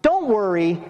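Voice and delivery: easy, unforced comfort; mild reassurance. Acted. Preacher voicing a God who makes no demands, mild reassurance. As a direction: reassure casually, at an even pitch. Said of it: "that's not so much a".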